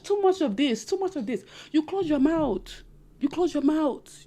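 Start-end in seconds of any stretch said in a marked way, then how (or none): 1.7-4.2 slow, deliberate higher order; slow firm command. Shown as a demonstration. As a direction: spell out the rule slowly. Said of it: "repeated slow command".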